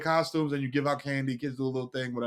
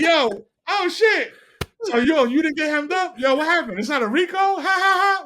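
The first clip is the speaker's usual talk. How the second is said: forced joke; 6 semitones higher, 4 dB louder than usual. Retold or imitated. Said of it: "trying to be funny".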